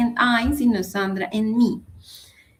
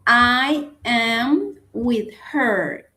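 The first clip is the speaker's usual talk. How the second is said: "I am with her" slowly, word by word; slow model sentence; much slower than usual. Shown as a demonstration. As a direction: spell out the correct sentence slowly. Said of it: "entonces digo".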